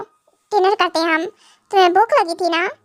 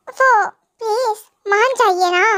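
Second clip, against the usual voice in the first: slow, crying plea; tearful plea; much slower than usual. Acted. Wife tearfully begging her husband to forgive her. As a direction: beg him through tears.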